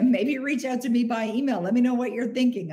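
light chuckle carrying the words; amused, playful offer; laughing invite. Real, not acted. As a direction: laugh into the line, then invite.

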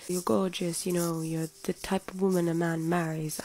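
light imitation of an Italian accent; a hint of an Italian man's charm, in an Italian accent; mock Italian accent, lightly done. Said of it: "why am I doing an Italian accent?".

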